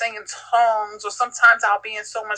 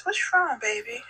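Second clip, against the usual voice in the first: tender concern; 3 semitones higher, 5 dB quieter than usual. Retold or imitated. Mother to daughter caught crying at night, tender concern. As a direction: gently check on your child, pitched up then soft.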